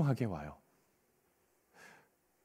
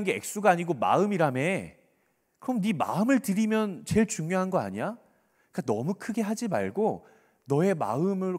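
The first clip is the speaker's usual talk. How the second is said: reasonable-sounding, sly persuasion; coaxing tempter. Acted. Satan talking a believer out of offering, coaxingly. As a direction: nudge with doubting questions. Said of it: "사단은 어떻게 속삭이냐면요".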